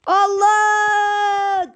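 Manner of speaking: high sudden yelp of shock; startled cry. Real, not acted. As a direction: jump out of your skin. Startled by game event.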